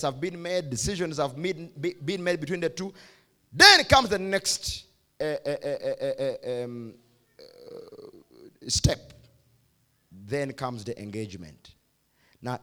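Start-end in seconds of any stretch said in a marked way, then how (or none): 3.5-9.1 dramatic drawn-out pause before step; suspense pause. Acted. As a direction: stretch it, stall, then land the word. Preacher building suspense, drawn-out pause.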